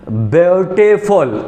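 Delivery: ब्यूटीफुल drawn out syllable by syllable; syllable demonstration. Shown as a demonstration. Teacher has class count how often it comes out, syllable by syllable. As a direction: say ब्यूटीफुल in slow, separated syllables. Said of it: "कितने बार में निकल रहा".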